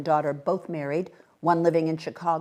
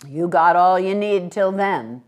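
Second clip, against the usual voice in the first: satisfied; 2 semitones higher, 8 dB louder than usual. A narrator's reading.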